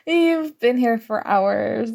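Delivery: words spoken through a light laugh; laughing tease. Acted. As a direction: chuckle it out, amused at them. Teasing laugh at the listener.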